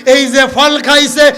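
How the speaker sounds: chanted wail of realisation, long stretched cries; preacher voicing a dismayed Adam; dawning dismay. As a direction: lament a trick discovered, stretching the key words. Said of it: "খেয়াল আসছে".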